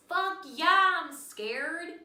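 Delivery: loud, high yelp of fear; hammed-up scared shout; terrified yell. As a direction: blurt it out at full volume. Needy answering demon Jennifer.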